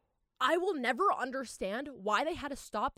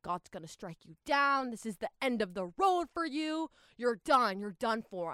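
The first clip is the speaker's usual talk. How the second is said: mock yell; 3 dB louder than usual. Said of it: "yelling at the top".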